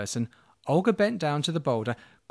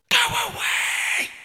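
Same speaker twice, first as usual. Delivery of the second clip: much higher, slow eerie warning; creepy house voice; slower than usual. Acted. Talking chicken-legged house warning Olga away, eerie. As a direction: warn her off like a spooky house. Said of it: "said the house".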